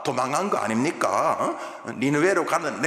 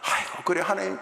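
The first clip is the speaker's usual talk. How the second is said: sarcastic; 6 semitones higher than usual. Retold or imitated. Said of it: "이렇게 비아냥입니다".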